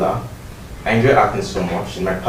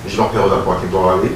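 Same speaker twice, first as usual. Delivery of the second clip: lightly done French accent, speaking French. Shown as a demonstration. Acting hopeful showing a coach their French, lightly accented. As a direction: introduce yourself in French with a French accent. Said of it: "if I'm to do a French accent".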